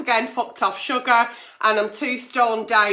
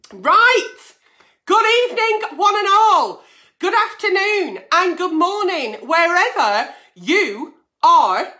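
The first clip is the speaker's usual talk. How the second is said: big greeting; 4 semitones higher than usual. Real, not acted. Greeting her viewers.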